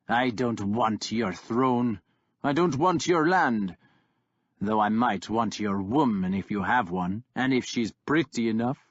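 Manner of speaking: lightly voiced brutal warlord; mocking warlord. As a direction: sneer down at the pup. Kjartan refuses, offers terms.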